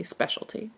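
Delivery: "specialty" in three syllables, spesh-ul-tee; "specialty" the American way. Shown as a demonstration. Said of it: "Here in the United States, we say".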